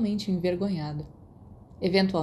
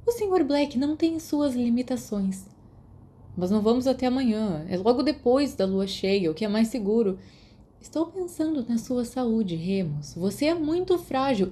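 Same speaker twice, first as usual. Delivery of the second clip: higher, raised fussy matron voice; a hint of a cross matron; irritated nurse; 4 semitones higher than usual. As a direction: scold like an annoyed school nurse. Nurse fussing over Remus.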